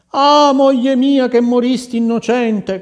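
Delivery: high, loud wailing grief; anguished cry. Acted. King crying out for his wronged dead wife, wailing. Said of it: "cominciò a grida-, a gridare".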